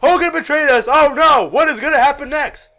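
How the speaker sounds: high, loud one-note commentary; Tony Schiavone. Retold or imitated. Commentator reporting betrayal without annoyance, loud monotone. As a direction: announce disaster in one unvarying pitch. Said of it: "He doesn't even sound annoyed".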